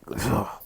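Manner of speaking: imitated hacking burst of flame; spitting out fire. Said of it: "just spits out fire".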